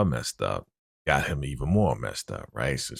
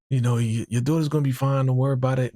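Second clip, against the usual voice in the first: soothing doctor voice; 8 semitones higher, 4 dB louder, much faster than usual. Retold or imitated. Doctor reassuring the father.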